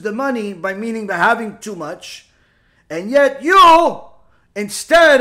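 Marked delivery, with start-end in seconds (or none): 2.9-5.2 emphatic rebuke. Acted. Preacher rebukes his listeners.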